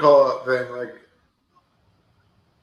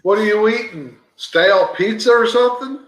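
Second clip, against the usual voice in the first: amused teasing; 6 semitones higher than usual. Real, not acted. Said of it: "Right into the mic".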